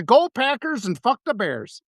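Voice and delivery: slow, lightly imitated Wisconsin accent; a hint of Manitowoc accent; Wisconsin comedian accent. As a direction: draw it out like a Wisconsin local. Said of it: "he talks like that".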